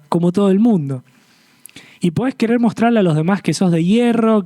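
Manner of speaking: an invitation to let go and repent; earnest closing appeal. Acted. Preacher urging the congregation to respond, in an earnest pleading voice.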